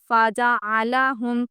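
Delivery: فاجا آلاہم said slowly with care; Quranic recitation. Shown as a demonstration. Teacher reciting a Quranic phrase for students. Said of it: "اگر آپ فاجا آلاہم پڑھیں گے".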